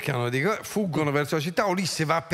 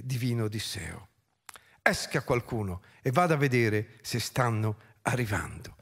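measured, solemn recital of verse; formal poetic narration; epic poem reading. A narrator's reading. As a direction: read it as ancient epic, with weighty pauses. Reads epic poem aloud.

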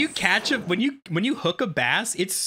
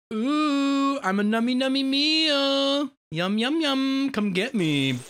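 higher, playful voice of the bait calling the fish; mock bait voice; 9 semitones higher, slower than usual. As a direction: play the bait teasing the fish.

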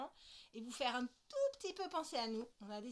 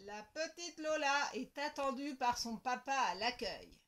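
louder announcer voice; loudspeaker announcement; 7 dB louder than usual. Acted. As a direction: read it like a hospital tannoy. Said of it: "dit une voix dans le haut-parleur".

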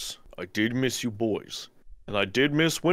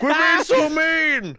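high, slow whining yell; hurt player whining at the bullies; whiny shout; 6 dB louder, slower than usual. Acted. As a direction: whine it like a bullied kid. Whining at teammates.

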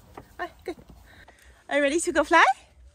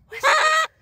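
alarmed; 12 semitones higher, 5 dB louder than usual. Real, not acted. Alarmed calling about hawk.

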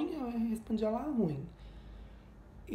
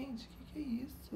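shocked whisper; 6 semitones higher, 10 dB quieter than usual. Retold or imitated. Shocked aside at the yelling.

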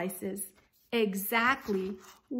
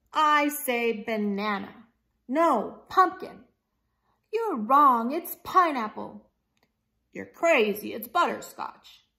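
louder quarrelling back and forth; shouting argument; 2 semitones higher, 6 dB louder than usual. Acted. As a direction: argue like squabbling gators, loud. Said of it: "They were shouting louder and louder".

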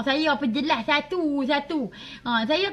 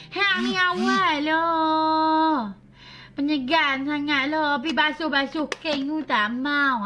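Bella's mom; slower than usual. Retold or imitated. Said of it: "tu Mak Bella".

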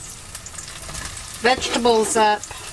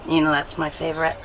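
whispering; 5 semitones lower, 3 dB quieter than usual. Real, not acted. Whispered aside while eating.

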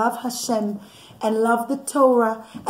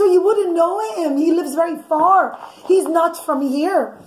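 put-on girl's voice; 5 semitones higher, 3 dB louder than usual. Osnat answering the king.

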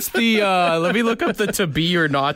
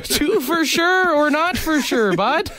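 higher, slow mock-Canadian line; Canadian Shakespeare; 8 semitones higher, slower than usual. Joking with his cohost as Shakespearean bud, mock Canadian accent. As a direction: twist the Bard into a hoser quip. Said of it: "Shakespeare hops into his F two fifty".

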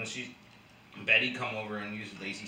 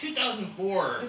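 mock reply; 8 semitones higher, 4 dB louder, slower than usual. Answering the confused caveman.

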